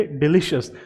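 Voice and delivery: डिलीशियस with "shus" ending, "di-li-shus"; correct pronunciation. Shown as a demonstration. Teacher modelling the right way to students, clear. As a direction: say डिलीशियस as "delishus". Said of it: "पहले word को आप कैसे पढ़ेंगे?".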